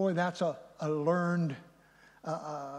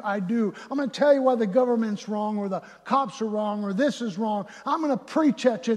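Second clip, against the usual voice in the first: insistent, building lecture; preaching at someone; 3 semitones higher, 4 dB louder than usual. Acted. One side lecturing the other about who is wrong, insistent preaching. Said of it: "There's just preaching".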